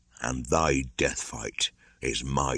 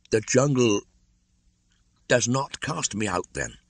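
put-on much higher, halting boy's question; stammering; 8 semitones higher than usual. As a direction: falter with hope and fear. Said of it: "Mowgli stammered".

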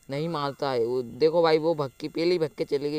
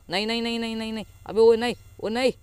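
high, repeated cries building louder; panicked protest; 6 semitones higher, 4 dB louder, faster than usual. Real, not acted. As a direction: plead in alarm, ending in a shout. Panic while being attacked. (घबराहट में ऊँची आवाज़ से मना करना)

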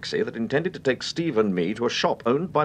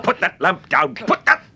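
sharp, loud shout rising to a cry; shouted command; 7 semitones higher, 6 dB louder, slower than usual. Acted. Temple warning Bellamy about to strike him, shouting. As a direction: bark the order to stop the attack.

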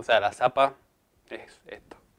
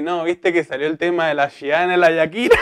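mock Mendoza accent, higher, rising at the end; imitating Mendoza speaker; 4 semitones higher than usual. Retelling someone's remark about singers, mock Mendoza accent. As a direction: Mendoza dragged R in the names. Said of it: "Y dice".

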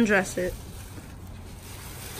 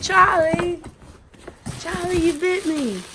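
high-pitched mock complaint; imitating YouTube video; 9 semitones higher than usual. Answering with a quote from a YouTube video, in high imitation. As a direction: cry out like the bitten kid online. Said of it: "it's a YouTube video".

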